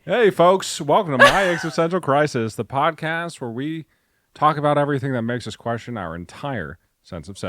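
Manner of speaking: upbeat show opener with a laugh; host intro. Pretend. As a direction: welcome listeners like a host. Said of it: "That's not correct either".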